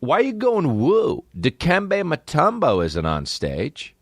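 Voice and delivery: high, slow exasperated demand; mock outrage. Comic scolding an audience member who whoops, high and slow. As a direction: scold the crowd in a high drawn-out voice.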